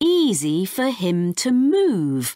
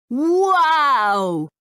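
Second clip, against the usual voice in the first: higher, wide-eyed wow; amazed; 6 semitones higher, 3 dB louder than usual. Acted. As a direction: gasp it out in wonder. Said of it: "says Max".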